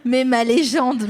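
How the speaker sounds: slow, reverent "ma légende" stretched out; awed gush. Real, not acted. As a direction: savour "ma légende" like meeting a hero. Fan gushing at her idol.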